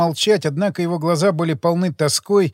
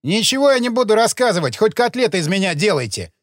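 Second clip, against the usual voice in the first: gravedigger cutting them off, higher and stubborn; curt refusal; 4 semitones higher than usual. Acted. Gravedigger flatly refusing to talk to detectives, stubborn. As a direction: slam the door on the questions. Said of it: "отрезал Шлямин".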